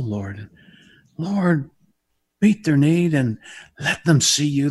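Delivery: earnest pastor's prayer. Acted. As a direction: pray over the listeners.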